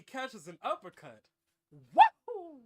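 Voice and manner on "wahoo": loud high whoop; excited cheer. Acted. Cheering the uppercut, a loud whoop. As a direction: whoop like a fan at a fight.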